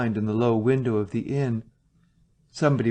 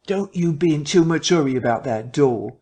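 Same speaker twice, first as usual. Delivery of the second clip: louder, urgent nervous warning; anxious warning; 3 semitones higher, 4 dB louder than usual. A narrator's reading. Cabman nervously warning the policeman off the door, anxious. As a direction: warn them anxiously.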